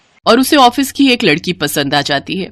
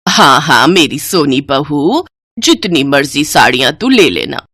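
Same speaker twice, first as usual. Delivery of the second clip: doting mother-in-law; 5 semitones lower than usual. Acted. Mother-in-law indulges favourite bride.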